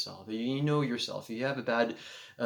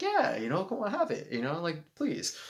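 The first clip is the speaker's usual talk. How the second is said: urging; 7 semitones higher than usual. Retold or imitated. Urging guest to accept gift.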